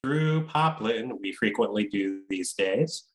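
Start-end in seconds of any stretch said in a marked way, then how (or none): 0.0-1.2 slow, drawn-out name announcement; announcer voice. Acted. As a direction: roll the name out like a ring announcer.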